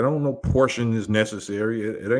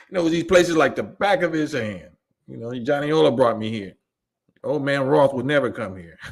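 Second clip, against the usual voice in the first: quoted movie line; 4 semitones higher than usual. Retold or imitated. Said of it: "Johnny Yola knows them strip clubs".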